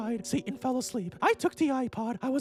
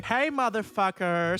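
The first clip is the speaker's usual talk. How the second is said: low male voice; 8 semitones lower, slower than usual. Acted.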